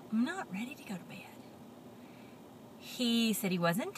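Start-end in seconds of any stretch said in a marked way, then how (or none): 0.1-1.2 whiny pigeon. Acted. Look right at me and say.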